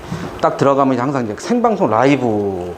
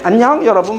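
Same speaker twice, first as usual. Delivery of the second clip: cheerful broadcast hello, pitched up; saluto allegro; 6 semitones higher, 3 dB louder than usual. Retold or imitated. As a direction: greet the viewers brightly, as if live. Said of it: "밝게".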